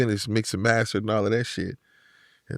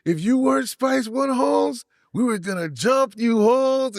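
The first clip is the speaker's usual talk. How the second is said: much higher, slow mock Chicano threat; Chicano accent; 10 semitones higher than usual. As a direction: mimic the inmate's playful threat. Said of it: "And then he said".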